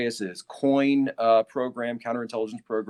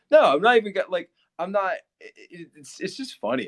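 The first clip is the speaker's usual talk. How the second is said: laughing protest; 6 semitones higher, 6 dB louder than usual. Real, not acted. Laughing through chat reply.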